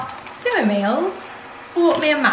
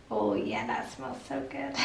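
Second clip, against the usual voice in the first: pretend dog voice; 12 dB quieter than usual. Owner answering for her dog about food, put-on pet voice. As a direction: answer softly as the dog would.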